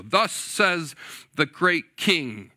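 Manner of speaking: "Thus says the great king" slow and grand; pompous royal announcement. Retold or imitated. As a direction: let "great" ring out slowly with pride. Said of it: "consider the emphasis".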